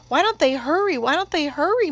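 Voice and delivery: fretful mutter, voice lifted high. A narrator's reading. Boy watching the fire with his sister, fretful muttering. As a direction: fret under your breath, pitch riding up. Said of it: "muttered Jim".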